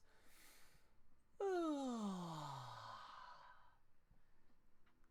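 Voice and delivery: voiced yawning sigh; breathy sigh. Shown as a demonstration. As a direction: push a breathy yawn out from the stomach. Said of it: "make a sound with this breath".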